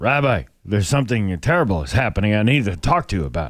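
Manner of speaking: play-acted very serious, solemn, grave low tone. Telling a joke, acting a man going to his rabbi: very serious tone. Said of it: "He stated in a very serious tone".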